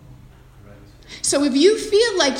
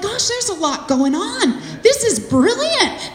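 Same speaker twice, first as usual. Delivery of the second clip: higher, slow, laughing delight; excited; 7 semitones higher, slower than usual. Retold or imitated. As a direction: gush over it with a laugh. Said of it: "I actually get quite excited".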